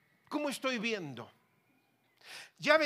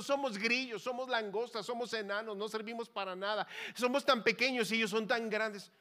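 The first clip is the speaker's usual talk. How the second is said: mildly hammed-up fearful complaint, higher voice; defeated spies; 4 semitones higher, 3 dB louder than usual. Spies reporting they are tiny as grasshoppers, mock complaining. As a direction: imitate panicked spies rattling off their weakness. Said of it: "los espías llegaron diciendo".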